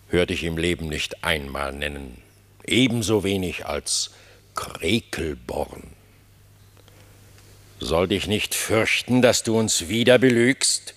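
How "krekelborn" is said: Krekelborn whispered slowly, voice rising in doubt; doubtful whisper. Acted. King doubting Reineke's invented place name, whispering. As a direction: mutter the odd name in disbelief.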